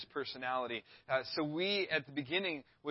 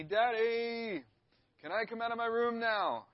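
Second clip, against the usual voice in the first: high, loud drawn-out call to Dad; imitated child yelling; 7 semitones higher, 4 dB louder, slower than usual. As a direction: mimic a kid hollering through the door. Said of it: "he would start yelling at me".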